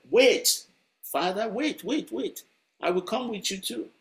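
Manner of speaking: put-on high, eager child calling wait; a small girl begging to come along; pleading little girl. A narrator's reading. Girl runs to her father calling.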